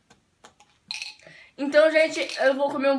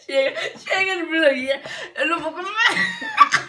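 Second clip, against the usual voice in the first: laughing protest; 4 semitones higher than usual. Real, not acted. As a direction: giggle out a refusal. Refusing more bread, laughing.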